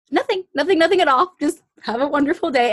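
panicky, scrambling to defuse; flustered backpedal. Retold or imitated. Carl flustered backing off pimp.

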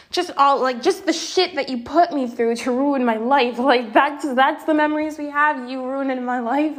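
upset outburst. Real, not acted. Speaker lashing out at the man who hurt her, upset outburst. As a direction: let the anger spill out at him.

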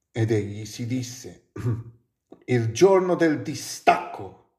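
measured, lyrical reading of Italian prose; Italian poetry recital; poetic reading. Acted. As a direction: read it like a solemn poem. Reads Gibran aloud in Italian.

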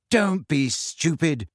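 slow, biting put-down; snarled. Acted. Hermione scolds Ron over the brain potion, snarling. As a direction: cut him down with contempt. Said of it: "she snarled".

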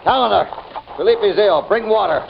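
loud, high urgent call for water; calling out urgently. Acted. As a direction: shout across the yard for help. Calling out for help.

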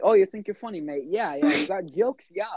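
high, loud mock British accent, taunting. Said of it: "making fun of his British accent".

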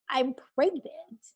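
slow, drawn-out retelling of the news; deliberate repeat. Retold or imitated. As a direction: stretch it out so it lands. Repeating it after dad's wait, what.

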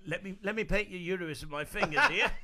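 lightly hammed British accent, laughing; British accent on the edge of laughter; imitating a famous singer. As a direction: play a lewd British rock star. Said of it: "He does a pretty good impression of that singer".

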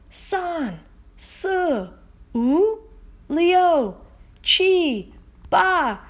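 loud, rising count in Mandarin; energetic Mandarin count. Shown as a demonstration. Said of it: "Let's do that in Mandarin".

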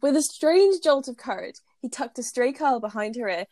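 steady read-aloud narration; story reading. Acted. Reads fanfic aloud.

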